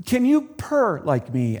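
lightly voiced slow cat; a hint of a haughty cat; snooty bored cat. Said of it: "asked the cat".

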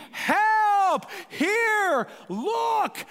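high, loud desperate shout; loud cry for help; yelling for help. Shown as a demonstration. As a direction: scream it out in anguish. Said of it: "you are yelling".

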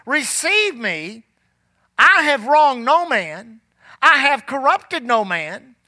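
slow, firm declaration; Paul declaring innocence. Retold or imitated. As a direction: proclaim your innocence, slowly. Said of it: "he could say it like this".

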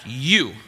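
"you" stressed and set apart; emphatic YOU. Shown as a demonstration. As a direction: land firmly on "you". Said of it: "It's an emphatic".

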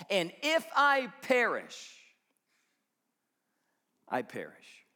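whispered resolve. Acted. Preacher voicing Esther's resolve.

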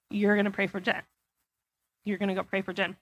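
soft voice of God. Retold or imitated. God's voice quoted softly.

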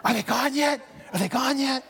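high-pitched, furtive little question; mock hiding. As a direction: play at anxiously hiding from callers. Pretends hiding from door-to-door visitors.

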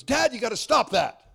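a hint of the son telling Dad off; son's voice. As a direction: son pushing his dad, lightly voiced. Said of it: "Sammy goes".

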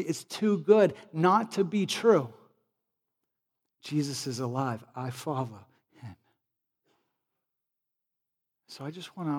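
ordinary talk

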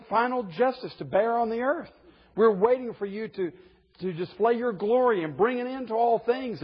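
saints crying out. Retold or imitated. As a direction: plead like the saints longing for justice. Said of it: "the saints in heaven cry out".

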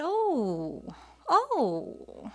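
high, drawn-out oh of discovery; surprised doctor. Retold or imitated. Doctor spotting something on the ultrasound, surprised. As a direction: let the second oh climb high in surprise.

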